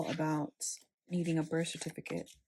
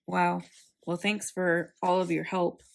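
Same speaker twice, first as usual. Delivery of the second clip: sarcastic. Retold or imitated. Retelling her reply to the unhelpful clerks, sarcastic. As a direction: say it flatly, meaning the opposite. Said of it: "that was my sarcastic reply".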